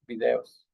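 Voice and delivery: videos in Spanish, "bi-DE-os"; pronunciación española. Shown as a demonstration. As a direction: stress the clear e in videos. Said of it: "En español decimos videos". (videos en español, con acento en la e)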